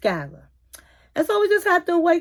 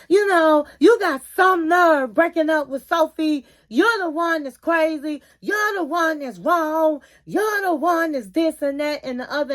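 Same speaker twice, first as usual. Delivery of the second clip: retold snapping off; 3 semitones higher than usual. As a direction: snap at him like the protective friend. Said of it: "she snaps off".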